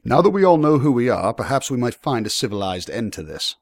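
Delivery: composed lord seeking settlement; civil young lord. Acted. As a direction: propose terms with authority.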